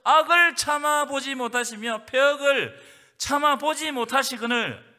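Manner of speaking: slow, loud pulpit proclamation; 강하게 외치는 설교; preaching at full force. Acted. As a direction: thunder the verse out slowly.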